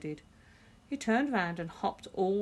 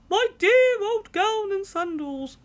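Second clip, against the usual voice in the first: much higher and louder, slow; delighted cry; 14 semitones higher, 11 dB louder than usual. A narrator's reading. George rejoices over his dear old gown. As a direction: savour each word with joy. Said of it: "he yelled".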